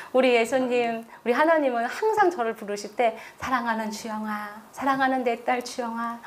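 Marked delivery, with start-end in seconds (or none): 3.4-6.2 softer, the way a loving father calls; soft affectionate calling of a daughter's name; tender loving call. Retold or imitated. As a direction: say her name gently and fondly. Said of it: "항상 제 이름을 그렇게 부르셔요".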